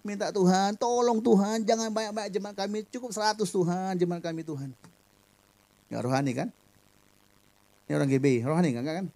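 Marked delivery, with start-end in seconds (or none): 0.3-4.8 cheeky prayer. Retold or imitated. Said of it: "saya berdoanya agak kurang ajar".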